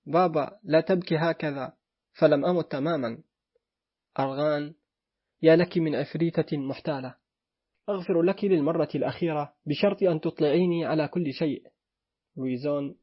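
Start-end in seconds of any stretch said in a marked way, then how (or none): none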